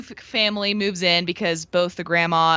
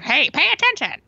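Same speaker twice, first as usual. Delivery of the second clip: strict teacher; 10 semitones higher than usual. Retold or imitated. Quoting teacher in film.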